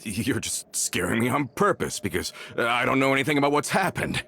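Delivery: rising, pleading voice; anxious disbelief. Acted. Coulter begs Navia to say it's a prank, rising panic. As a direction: beg it to be a prank.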